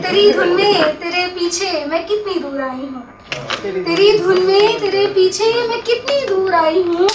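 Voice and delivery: mushaira-style ghazal recital; poetry recitation. Acted. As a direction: recite the couplet and stretch out the refrain. Recites poem with refrain.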